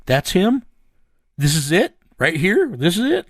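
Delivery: can't believe it's finally him; excited disbelief. Retold or imitated. Partner spotting the fugitive, excited rising questions. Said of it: "And Pookie's like".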